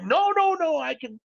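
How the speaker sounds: a flustered collector squeaking out a high-pitched denial. Acted. Collections agent Bob, caught out by the caller, flustered and high. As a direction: backpedal fast, caught in his own claim.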